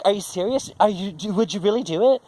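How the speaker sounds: high, incredulous mock sister voice; imitating sister's disbelief. Sister asking if he's serious, high and incredulous. Sister's surprised reply, retold.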